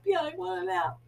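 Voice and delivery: high, crying whine; whiny tired voice. Retold or imitated. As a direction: whine like a sleepy child. Do you need a nap?.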